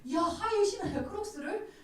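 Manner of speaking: high-pitched, incredulous mock exclamation; shocked disbelief. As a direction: act out astonishment at a friend's shoes. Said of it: "제가 충격이었어요". (충격받은 듯 높은 목소리로)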